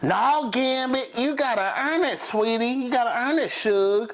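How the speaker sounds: a high, prissy put-on Rogue brushing off her suitor; Rogue teasing Gambit. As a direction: play hard to get, sweetly teasing. Rogue voiced rejecting Gambit.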